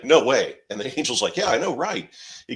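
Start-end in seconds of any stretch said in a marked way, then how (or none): 0.0-0.5 high, loud mock-incredulous exclamation; retold disbelief. Man hearing an angel's revelation, loud mock disbelief. 1.4-2.1 very high, loud sing-along agreement; mock shared amazement. Angel agreeing with the astonished man, high mock amazement. Retold angel sharing the disbelief.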